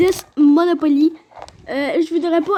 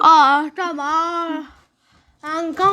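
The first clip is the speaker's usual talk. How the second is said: talking with mouth closed; much slower than usual. Real, not acted. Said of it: "Parle sans ouvrir la bouche".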